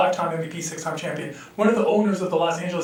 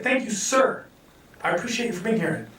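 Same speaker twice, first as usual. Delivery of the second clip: sincere thanks. Retold or imitated. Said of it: "and said".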